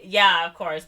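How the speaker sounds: retold sarcastic agreement. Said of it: "but, like, sarcastically".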